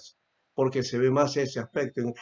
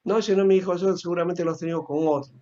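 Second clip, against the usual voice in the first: indifferent father; 5 semitones higher, faster than usual. Retold or imitated. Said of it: "algunos indiferentes también".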